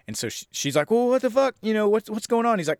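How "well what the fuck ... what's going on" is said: high-pitched imitation of a startled woman; lightly acted alarm; mock bewilderment. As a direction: play her thrown and confused. Acts out friend's startled reaction.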